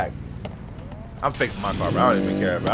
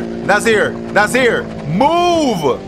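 frustrated yell; 4 semitones higher, much slower than usual. Real, not acted. Streamer yelling at a teammate blocking his car, building to a shout. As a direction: shout at Nazir to get out of the way.

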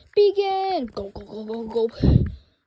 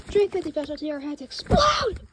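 mock scream; 3 semitones higher, 5 dB louder than usual. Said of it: "Why did you scream in my face?".

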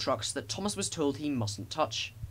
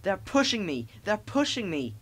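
high-pitched, panicky protest; panting; 6 semitones higher than usual. A narrator's reading. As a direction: cry out while struggling for breath. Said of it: "he panted".

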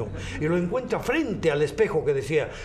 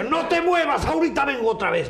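excited command; 9 semitones higher, 5 dB louder than usual. Acted. Wife voiced in joke.

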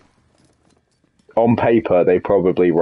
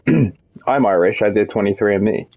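mock American claiming Irish. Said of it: "one of those Americans that's like".

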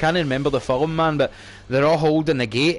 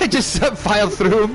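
laughing; 4 semitones higher than usual. Real, not acted. Laughing retelling of team kill.

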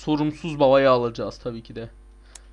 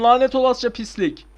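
frustrated curse; 7 semitones higher, 5 dB louder than usual. Real, not acted. Raging at the level.

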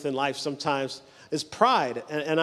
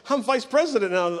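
excited bragging; 3 semitones higher than usual. Retold or imitated. Promoted man telling everybody his news, excited bragging. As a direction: brag eagerly as the newly promoted man. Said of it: "he was so excited".

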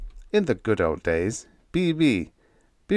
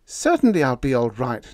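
much higher, louder scolding wife; firm wife; 4 semitones higher, 4 dB louder than usual. Acted. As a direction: lecture him on duty firmly. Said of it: "declared Diane".

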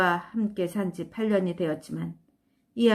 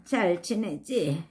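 grandma's voice; 2 semitones lower, slower than usual. Acted. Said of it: "할머니 목소리다".

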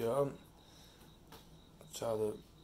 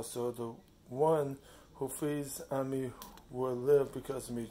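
scripture reading. Acted. Reading a Bible passage to open a devotional, measured and deliberate.

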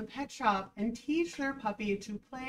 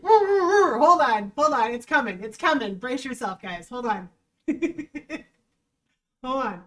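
suppressed laughter; 8 dB louder than usual. Real, not acted. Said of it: "I need to center myself".

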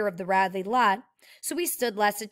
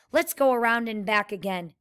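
ordinary delivery, nothing marked

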